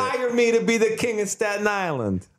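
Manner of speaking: high put-on character voice; Molinara voice. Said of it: "That's a fun character".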